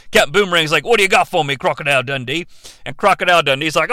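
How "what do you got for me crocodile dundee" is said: lightly hammed Aussie workman; broad mock Australian reply; Australian accent. Construction worker answering his mate, mock Australian accent. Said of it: "the Australian construction workers".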